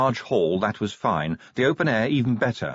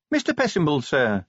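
announcing officer; 6 semitones higher than usual. Acted. Voices Cheery announcing a visitor.

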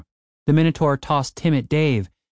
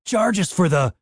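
higher, incredulous outburst; shouting in disbelief; 6 semitones higher than usual. A narrator's reading. Dave to Cooper about the beer, incredulous shout. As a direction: repeat it in disbelief, pitch jumping. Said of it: "Dave shouted".

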